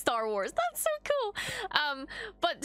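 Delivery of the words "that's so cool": excited. Real, not acted. Actor from Shang-Chi in Star Wars.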